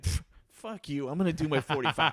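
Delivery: defiant friend. Retold or imitated. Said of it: "She's like".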